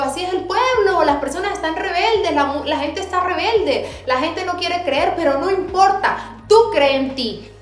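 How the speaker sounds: retelling God's message to a rebellious people, fervently; fervent preaching. Retold or imitated. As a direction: preach it with rising fervor. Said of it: "yo digo".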